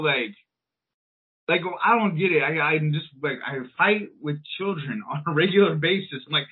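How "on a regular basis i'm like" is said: ordinary delivery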